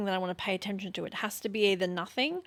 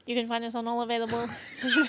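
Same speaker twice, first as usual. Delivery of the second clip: Mii character voice; much faster than usual. Pretend. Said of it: "you just sounded exactly like that".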